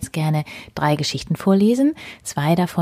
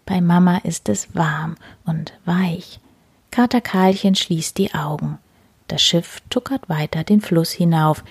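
gentle storyteller voicing cats; reading to children. A narrator's reading. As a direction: tell it cosily to small listeners. Reads second story aloud.

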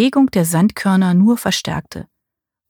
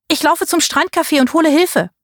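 calling out; 9 semitones higher than usual. A narrator's reading. Marie calls out while leaving.

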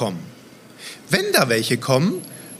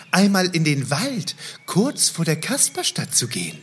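put-on kids show host. Kasper greets the children.

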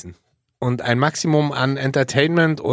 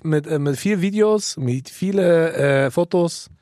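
put-on German with a light Russian accent; slight Russian accent in German; slower than usual. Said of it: "leicht russischer Akzent".

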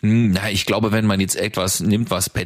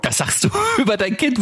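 laughing; 12 semitones higher than usual. Real, not acted. Laughing teasing remark.

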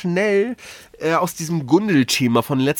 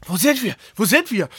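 gespielte Panik; 4 semitones higher than usual. Retold or imitated. Schlafwandelnden Freund nachgemacht.

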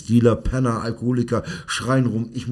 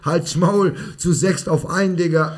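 higher-pitched string of retold insults; mock abusive rattle; 6 semitones higher than usual. Coach showing how disrespectful the kids were, raised mock cursing. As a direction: reel off the swearing like a list, pitch raised. Reeling off kids' rude abuse.

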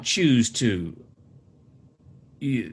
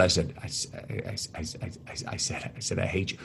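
frightened stammered whisper, much softer and lower; scared whisper; 7 semitones lower, 13 dB quieter than usual. Retold or imitated. Boy confessing to his angry mom, frightened whisper. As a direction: whisper it like a caught kid.

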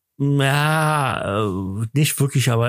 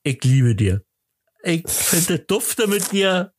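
mock declaration; 4 semitones higher, slower than usual. Real, not acted. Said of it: "vor mindestens achtzehn Followern sagen".

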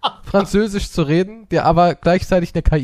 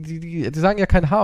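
ordinary talk, nothing marked

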